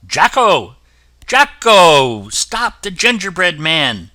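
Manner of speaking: loud, high call across the field; cook calling out. A narrator's reading. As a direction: shout after the monkey to stop him. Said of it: "heard the cook calling".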